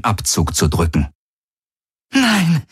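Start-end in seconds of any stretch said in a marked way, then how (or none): 2.1-2.6 high, gasped refusal; strained gasp. A narrator's reading. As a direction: gasp it out in pain. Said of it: "keuchte sie".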